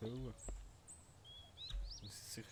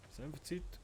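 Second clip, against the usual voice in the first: excited; 8 semitones higher, 3 dB louder than usual. Real, not acted. Excited about going to bed.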